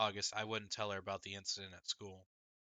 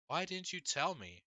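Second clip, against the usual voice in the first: stunned; 8 semitones higher than usual. A narrator's reading. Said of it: "Double stunned, stung".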